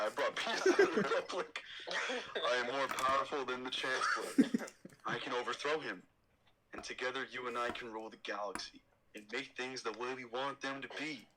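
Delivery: a hint of a brooding Anakin; lightly voiced young Jedi, reassuring. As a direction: Anakin in near-normal voice. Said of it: "my Anakin is pretty sick".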